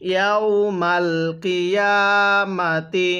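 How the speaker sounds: slow, drawn-out Arabic recitation; ধীরে তিলাওয়াত; slow Quran recitation. Shown as a demonstration. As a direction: recite each syllable slowly for the student. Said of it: "কিভাবে পড়ব?".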